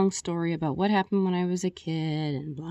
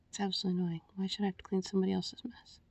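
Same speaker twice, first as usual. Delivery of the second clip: annoyed whisper; 8 dB quieter, faster than usual. Real, not acted. Annoyed at cleaning the tub.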